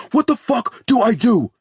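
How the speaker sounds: high, loud panicked cry; frantic father crying out. A narrator's reading. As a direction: scream for help in terror. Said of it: "Dave cries out".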